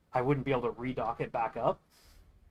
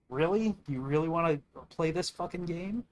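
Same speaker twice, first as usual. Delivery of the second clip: indignant challenge; 4 semitones higher than usual. Real, not acted. Daring the alliance leaders to push him further, indignant. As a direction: throw the question back at them, exasperated.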